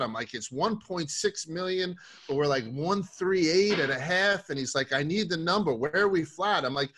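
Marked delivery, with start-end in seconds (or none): 0.3-4.5 trading floor callout. Retold or imitated. Trader quoting himself on floor. 4.9-6.6 pushy trader. Retold or imitated. Coworker Tommy K demanding numbers.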